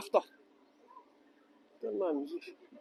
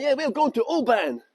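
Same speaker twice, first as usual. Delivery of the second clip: light put-on American accent; mock American accent; 3 semitones higher than usual. Guide imitating his own reply to a tourist, mock American accent. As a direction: answer in a playful American accent. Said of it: "changed into my American accent".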